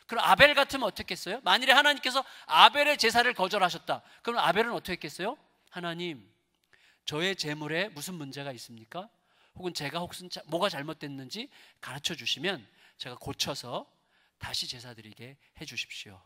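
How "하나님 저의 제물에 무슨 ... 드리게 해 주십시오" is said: soft, low, respectful plea; hushed deferential question; humble petition. Acted. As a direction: ask God meekly, voice lowered. Abel humbly asks God, acted.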